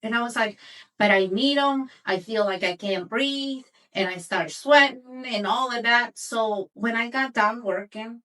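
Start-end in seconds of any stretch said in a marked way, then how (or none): 1.0-3.6 panicky, louder plea; freaked out. Retold or imitated. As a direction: burst out desperately, then ease off. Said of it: "So I freaked out".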